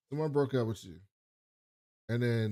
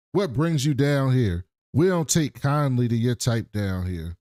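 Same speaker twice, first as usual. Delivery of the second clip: menacing deputy; 3 dB louder than usual. Retold or imitated. Sheriff's deputy confronting a stranger.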